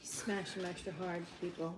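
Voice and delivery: mock cooking show. Real, not acted. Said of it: "echoing as a cooking tip".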